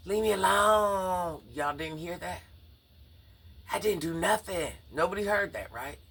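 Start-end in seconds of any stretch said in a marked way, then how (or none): 0.1-1.4 high, slow, strained yelled plea; imitating a scream. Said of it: "I heard Thomas screaming". 3.7-4.7 imitating a frantic boy. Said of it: "I heard Thomas screaming".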